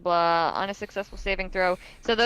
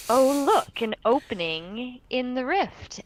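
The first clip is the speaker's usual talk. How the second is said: lightly voiced demon; scary Abyssal speaker; 4 semitones higher than usual. Game master voices an Abyssal speaker, lightly scary demon voice. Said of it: "a very scary language".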